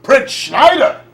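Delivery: hammy stage actor. Acted. Hammy stage play as king.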